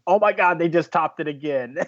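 amazed moviegoer reliving the moment; gobsmacked. Retold or imitated. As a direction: relive being floored by what you saw. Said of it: "gobsmacked and thinking".

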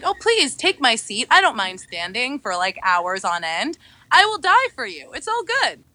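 lightly voiced chivalrous officer; swooning soldier. Hot officer offering his seat, mock gallant. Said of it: "and he's like".

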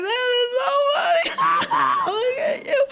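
very high squeal breaking into cackles; hammed-up helpless laughter through the words; hysterical laughing. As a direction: imitate kids shrieking with laughter. Children laughing at fallen mother, retold.

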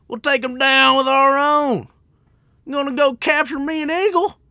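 exaggerated high-pitched Southern hick voice; redneck impression. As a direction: holler it like a hammed-up redneck in a Southern accent. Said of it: "seems like a bunch of rednecks".

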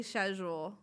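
"schedule" said with sh at the start; British pronunciation. Retold or imitated. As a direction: imitate the British shed-jool for "schedule". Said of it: "made it a point to say".

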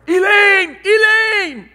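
loud, high shout down the stairs; yelling for wife. Retold or imitated. Father yelling downstairs to his wife Elaine, loud high call. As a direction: call your wife from upstairs at full voice. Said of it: "He starts yelling down from upstairs".

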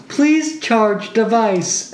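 slow, lightly voiced machine announcement; device alert voice. Robot character's charge alert echoes through hotel, slow machine voice. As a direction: drag it out like an automated alert. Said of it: "you can hear".

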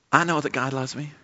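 lightly put-on southern US accent. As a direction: imitate a woman preacher from the American South. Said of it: "had this southern U S accent".

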